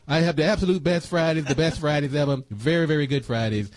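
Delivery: hammed-up bragging president, only lightly changed; Donald Trump impression. Host shows off his Trump impression to co-host, lightly voiced. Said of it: "That's my Donald Trump impression".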